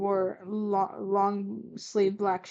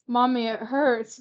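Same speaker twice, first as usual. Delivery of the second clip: hurt whisper; 3 semitones higher, 4 dB louder, slower than usual. Acted. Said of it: "Gladion whispered".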